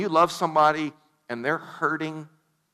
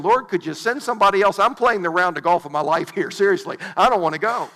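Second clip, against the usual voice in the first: louder, hurried comic protest; reluctant Lazarus; 5 dB louder, faster than usual. Acted. Lazarus begging the Lord to send somebody else, comically reluctant. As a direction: plead to be let off, lightly hammed-up.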